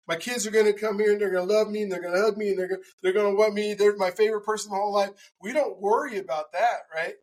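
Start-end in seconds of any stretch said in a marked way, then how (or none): 0.1-5.1 fast, piled-up list of imagined affection; imagined gushing. Pretend. Speaker playing the thoughts we never have, mock gushing. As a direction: rattle off rosy thoughts quickly. Voices happy thoughts nobody actually has.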